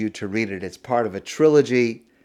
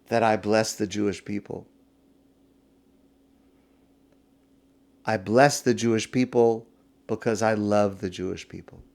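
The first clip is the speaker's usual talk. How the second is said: gentle God. Acted. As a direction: calmly reassure with love. God answers lovingly.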